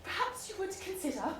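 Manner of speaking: high, loud and breathless, gushing over him; a swooning heroine racing through her confession; giddy lovestruck lady. Acted. Heroine's breathless proposal monologue.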